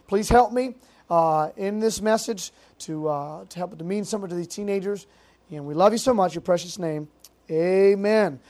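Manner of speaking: earnest spoken prayer to God. Acted. Pastor praying before the message, earnest prayer. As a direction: pray sincerely over the teenagers.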